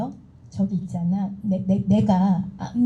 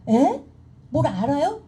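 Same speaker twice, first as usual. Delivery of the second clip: higher-pitched imitation of a baffled sponsor; mock bafflement; 5 semitones higher, slower than usual. Sponsor reacts to a newcomer wanting SP, mock bafflement. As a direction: act out a taken-aback "huh?". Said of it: "우리 스폰서님 황당해가지고".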